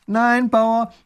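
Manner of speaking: high loud cutting in; loud high interruption; interrupting. Acted. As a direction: cut him off firmly. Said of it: "unterbricht ihn der kleine Großherzog".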